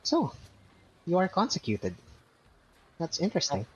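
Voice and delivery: high, curious goblin. Acted. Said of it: "he bows his head and says".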